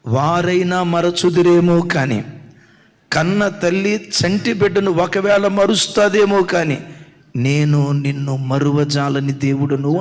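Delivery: preacher voicing God's vow. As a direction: speak as God making a promise. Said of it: "దేవుడు ఏమంటాడో తెలుసా".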